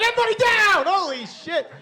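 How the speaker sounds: high, loud panicked yell; mock panic. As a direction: shout a hammed-up alarm. Panic in restaurant.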